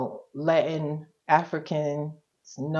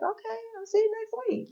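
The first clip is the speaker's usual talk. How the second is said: imitating therapist; 6 dB quieter, faster than usual. Mimicking her calm therapist.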